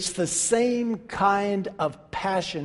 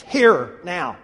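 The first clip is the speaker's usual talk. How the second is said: imitated foot-down order, each word falling; firm command; 2 semitones lower, 3 dB louder than usual. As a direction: give a short, final order to come. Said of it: "basically what Jesus is saying to Lazarus".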